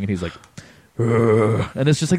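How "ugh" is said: gruff mock Snake grunt; Snake impression grunt. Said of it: "you sounded like You doing an impression of Isaac doing an impression".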